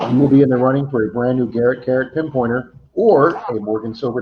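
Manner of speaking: upbeat announcer pitch; network promo voice. Acted. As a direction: sell it like a channel promo. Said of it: "That was my best promo voice there".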